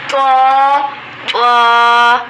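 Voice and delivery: طا said full and loud, the corrected way; correct taa. Shown as a demonstration. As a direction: give طا its heavy sound. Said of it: "طا نہیں کہیں گے". (طا درست موٹا)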